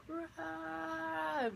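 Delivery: high put-on Rah growl; imitating a scary face roaring; mock monster roar. Scary floating face lunging at dreamer, mock roar.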